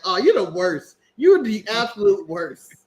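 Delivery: a light snooty British put-on, slow on the last line; stuck-up British voice. Mocking a British wrestler, lightly in a snooty British voice. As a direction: sneer it like a stuck-up Brit. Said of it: "she's just stuck up and just like".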